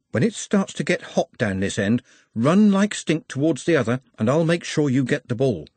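usual speaking voice

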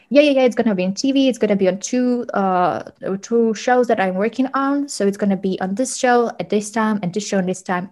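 breezy reassurance. Retold or imitated. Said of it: "He's like".

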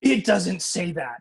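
drawn-out, mildly indignant retort; slowly insist, with stress on the first word; firm denial. Retold or imitated. Mother contradicting her son about scripture, firm denial. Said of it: "so she says to me".

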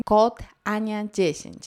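slow, hammered-in code announcement; mock promo plug. Vlogger parodying sponsored posts, slow pushy plug. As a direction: push the code slowly and deliberately.

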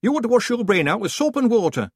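high, sharp telling-off; scolding village woman. A narrator's reading. Woman rebuking the man for his crude joke, high and sharp. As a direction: scold him like a stern aunt.

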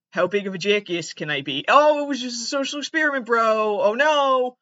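mocking bro voice. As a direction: mimic a smug prank bro. Mocking prank bros.

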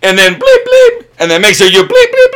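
loud, high, excited mock rant; hyped shout. Mocking hyped podcast rant.

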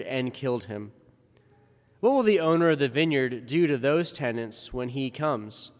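formal liturgical reading voice; Gospel reading. Acted. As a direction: proclaim the Gospel solemnly.

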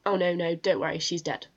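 imitating a casual brush-off; blunt, matter-of-fact. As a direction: wave it away like a normal office day. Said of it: "so just blunt and matter of fact".

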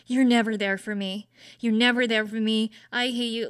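hammed-up clingy partner's complaint; anxious accusing. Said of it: "being an anxious mess".

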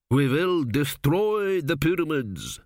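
slow, high, drawn-out proclamation; commanding pharaoh. A narrator's reading. Dead king pushing forward at the priest, commanding. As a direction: proclaim doom slowly, stretching the words.

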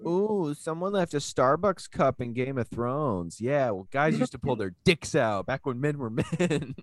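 put-on slow, high scoffing old-timer; grumpy old-timer voice. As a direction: sneer it like a cranky old guy who misses the old days. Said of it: "Now it's all like".

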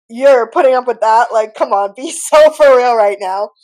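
loud, laughing disbelief. Retold or imitated. Telling friend to be real, laughing. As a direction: call her out, laughing.

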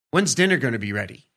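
fast, mildly demanding question; mock impatient husband asking about dinner; a touch of aggression. Shown as a demonstration. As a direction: push a little, lightly impatient. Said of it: "a tone that's a little bit aggressive".

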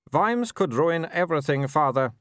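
lightly voiced young werewolf noble, cool; a hint of the arrogant son; Wulf's voice. A narrator's reading. Son answering his mother, lightly voiced young noble.

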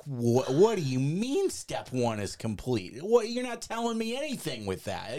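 high, exasperated demand; irritated. Retold or imitated. Man in the driver's seat demanding answers from God, exasperated. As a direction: press God for an answer, fed up. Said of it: "So you're irritated too".

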